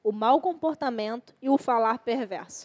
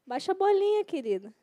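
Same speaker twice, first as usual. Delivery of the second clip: gentle rebuke; 4 semitones higher, 4 dB quieter than usual. Retold or imitated. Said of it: "O Espírito Santo fala assim".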